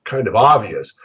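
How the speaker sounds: high, amazed "wow" at a simple idea; amazed exclamation. Retold or imitated. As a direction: act out slapping your forehead in disbelief.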